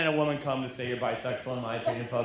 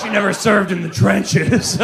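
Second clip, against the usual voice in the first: raised, slow accusing call; hammed-up public condemnation; mock denunciation; 3 semitones higher, 6 dB louder, slower than usual. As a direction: draw out the accusation loudly. Acted denunciation continues.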